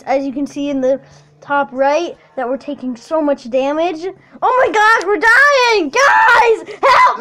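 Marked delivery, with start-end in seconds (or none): 4.4-7.2 urgent cry to the team; panicked call for help. Real, not acted. Gamer calls teammates for help as his team takes damage, panicked.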